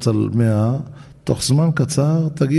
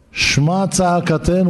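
"שמע צעקתנו" pitched higher, slow and pleading; crying out in prayer; 6 semitones higher, slower than usual. Acted. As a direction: cry out "שמע צעקתנו" as a desperate plea. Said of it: "הוא צועק". (זעקת תפילה גבוהה ואיטית)

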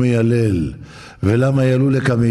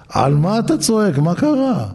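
higher, anxious questioning wife; a wife alarmed at her husband's shouting; worried wife; 8 semitones higher than usual. Acted. Wife asks why he shouts. (אישה מודאגת שואלת בקול גבוה)

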